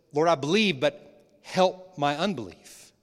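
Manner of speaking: a desperate father calling out to Jesus; loud plea. Acted.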